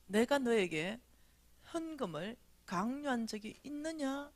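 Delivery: slow, spaced-out solemn question; lightly voiced God. God's question recalled by the speaker, lightly solemn. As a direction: draw out the question with gentle gravity. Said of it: "하나님이, 미진아".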